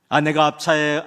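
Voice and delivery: ordinary delivery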